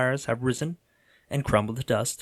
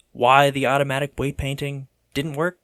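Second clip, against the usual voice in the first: exasperated; 4 dB louder than usual. Real, not acted. Venting about weight painting.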